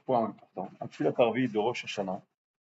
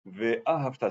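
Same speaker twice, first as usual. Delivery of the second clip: Ve'a Havta split, weight on Ve'a and final ta; stress on Ve'a and ta; 3 dB quieter, slower than usual. Shown as a demonstration. Teacher showing the prayer word, stressed Ve'a Havta. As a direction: break it Ve'a, Havta, hitting the ends. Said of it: "Ve'a et le ta à la fin".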